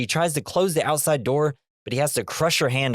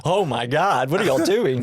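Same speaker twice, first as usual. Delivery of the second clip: Michigan mom turned Southern lady, mildly aghast; bad Michigan mother accent; 4 semitones higher than usual. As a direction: fret in a botched Michigan accent. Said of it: "Michigan mother sound like a southern".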